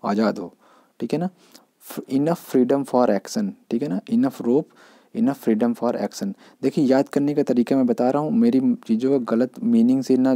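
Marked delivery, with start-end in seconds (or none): 1.9-3.5 very slow, word by word; slow dictation of the idiom, stress on enough; slow idiom read. Shown as a demonstration. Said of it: "teacher spells out idiom slowly". 5.1-6.3 very slow, word by word; slow dictation of the idiom, stress on freedom; slow idiom read. Shown as a demonstration. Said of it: "teacher repeats idiom slowly".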